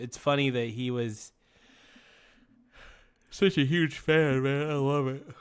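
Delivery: speaking through a yawn. A tired host talks about a fan who enjoyed the show: yawning while talking. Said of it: "Sorry I'm yawning".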